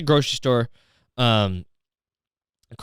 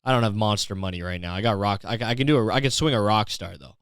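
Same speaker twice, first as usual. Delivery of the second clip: mock the broke customer lazily; mocking the guy; 4 semitones lower than usual. Imitating the customer who settles for a Rockstar, mumbled low. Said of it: "to just be like".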